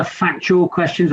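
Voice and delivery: factual leaned on, set apart; stress on factual. Real, not acted. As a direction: give the word factual a firm, deliberate push. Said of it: "I emphasise the word factual".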